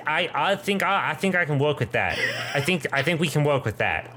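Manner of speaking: fast, hammed-up bad Russian accent. GM warming up the bad Russian accent for the woman. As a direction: try on a broken Russian accent. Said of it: "a bad Russian".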